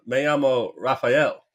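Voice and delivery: put-on slow American-accented Spanish with a laugh in it; white-guy Spanish accent. Cruz posing as a local in Mexico, American-accented Spanish. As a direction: introduce yourself in slow gringo Spanish. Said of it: "he still sounds like a white guy speaking Spanish".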